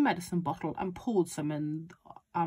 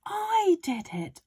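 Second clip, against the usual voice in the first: put-on high, insistent boy voice; shouting back; 9 semitones higher, 4 dB louder than usual. A narrator's reading. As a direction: insist it loudly, stretching the words. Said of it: "George shouted back to her".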